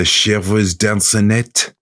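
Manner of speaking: slow, put-on French accent. Reading out France's name for the wisps, put-on French accent. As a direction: draw the names out in a French accent. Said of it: "I'm doing all the accents".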